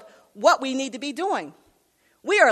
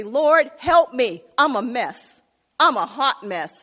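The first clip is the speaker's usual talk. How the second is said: pleading prayer; 4 dB louder, slower than usual. Pretend. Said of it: "cry out to God and say".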